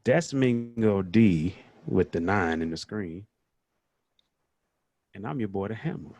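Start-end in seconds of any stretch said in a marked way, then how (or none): 0.0-3.3 slow booming ring announcer intro; deep announcer voice. Pretend. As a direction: announce him like a fighter entering. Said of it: "my deep, thunderous announcer voice".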